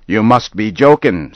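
can't believe what he hears; disbelieving farmer. Acted. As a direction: Farmer Dodge doubting Henry. Dodge disbelieving.

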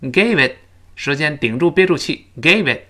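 "gave it" with the final T held back; unreleased T. Shown as a demonstration. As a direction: stop the breath on T in "gave it". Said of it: "最后那个t失去爆破". ("gave it"末尾t不爆破)

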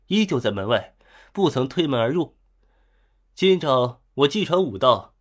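booming proclamation to the crowd; thunderous voice. Acted. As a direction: declaim it like thunder. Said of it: "声音如雷".

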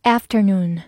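American pronunciation of "afternoon"; American accent. Shown as a demonstration. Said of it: "美式发音读作afternoon".

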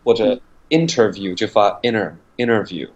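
"interview" said as "innerview" without T; dropped T. Shown as a demonstration.

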